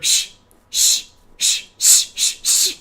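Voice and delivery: rapid whispered shh-shh; shushing battle. Retold or imitated. Dead people and killer shushing each other in a fight. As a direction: fire shushes back and forth.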